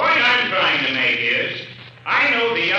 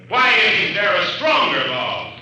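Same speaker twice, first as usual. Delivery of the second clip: raised, indignant challenge; indignant demand. Acted. Club director demanding stronger laws, indignant and raised. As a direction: push back hard at the sergeant. Heated argument with police sergeant.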